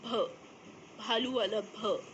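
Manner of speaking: भ aspirated, breathy bh, a bit slow; sounding out भ. Shown as a demonstration. Teacher modelling भ for the class. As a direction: say भ as in भालू. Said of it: "इसे पढ़ेंगे भ".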